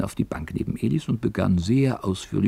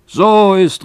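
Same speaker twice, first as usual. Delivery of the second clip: put-on higher and louder, an old man flaring up in anger; angry old miner; 11 semitones higher, 9 dB louder than usual. Old miner scolding young Elis, angry and loud. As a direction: snap it out, offended. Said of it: "rief der Alte erzürnt".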